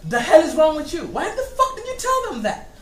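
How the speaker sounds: outraged yelling through laughter; arguing with myself. Acted. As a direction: chew out your other self. Scolding the other self, laughing.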